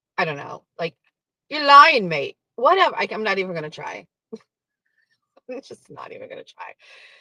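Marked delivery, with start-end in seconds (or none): 1.5-2.4 put-on loud, raised, pitched-up Australian accent. Retelling what a man said to him, trying Koala John's Australian accent. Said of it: "How do you do an Australian accent?".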